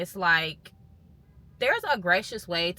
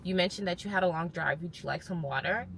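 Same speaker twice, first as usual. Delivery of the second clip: soothing reassurance; 6 dB quieter than usual. Retold or imitated. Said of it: "he just is like".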